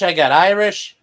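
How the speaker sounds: high, loud ditzy bragging; ditzy girl voice. Acted. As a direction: brag it like a bubbly girl. Acted ancestry list.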